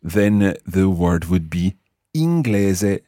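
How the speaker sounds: slow, clear inglese, een-GLEH-zeh; teacher's model. Shown as a demonstration. Teacher modelling inglese for the learner. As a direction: inglese spelled out slowly in Italian sounds. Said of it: "if you were English".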